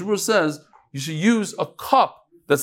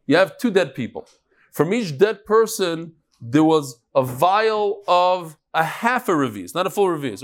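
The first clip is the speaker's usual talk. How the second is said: slower. Shown as a demonstration. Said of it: "I went through it too quickly".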